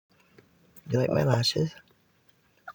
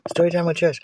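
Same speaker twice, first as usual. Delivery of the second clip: announcer; 7 semitones higher than usual. Pretend. Announcing the show.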